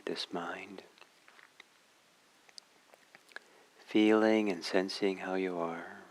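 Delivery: calm meditation guidance with long pauses between phrases; guided meditation. Real, not acted. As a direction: gently guide listeners inward, leaving long silences.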